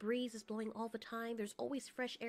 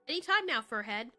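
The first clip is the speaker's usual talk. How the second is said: impatient call; 6 dB louder than usual. Acted. Calls out impatiently to Spear.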